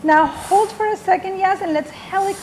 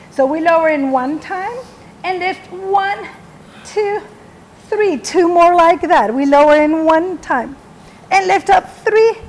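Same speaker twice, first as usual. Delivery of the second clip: cueing through a burning ab workout; doing sit-ups; 3 dB louder than usual. Real, not acted. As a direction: speak with effort mid-rep. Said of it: "My abs are burning".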